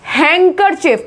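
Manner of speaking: हैंकरचीफ carefully, "heng-kur-chif"; silent d demo. Shown as a demonstration. Teacher showing how we say it, silent d. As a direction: run n into k in हैंकरचीफ. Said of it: "इसमें हम बोलते हैं".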